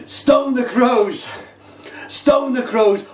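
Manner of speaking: high, slow, amazed cry; amazed exclamation. Real, not acted. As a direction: exclaim in sheer astonishment. First sip of strong IPA.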